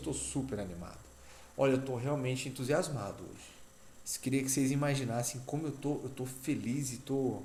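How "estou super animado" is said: deadpan monotone, low, flat, no excitement at all. Claiming to be super excited while the tone does not match, flat, unenthusiastic. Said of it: "o meu tom de voz não condiz com o que a minha frase está dizendo".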